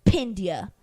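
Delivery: half-whispered taunt of a sassy cub; sassy cub impression. Host imitating young Nala pinning Simba, sassy whisper. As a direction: whisper it like a playful wrestling victor. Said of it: "when she's like".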